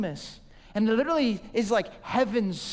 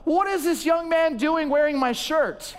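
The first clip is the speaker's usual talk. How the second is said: higher and louder, mock outraged cry; a hammed-up old lady yelling across the salon; old woman's shocked scream; 6 semitones higher, 4 dB louder than usual. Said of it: "she screams out".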